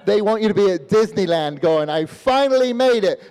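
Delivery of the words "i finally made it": mock joy. Defector rejoices at Disneyland.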